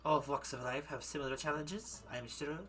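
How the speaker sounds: put-on German accent. Madame presents her criminal exhibits, German accent. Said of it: "gonna freaking go back into German again".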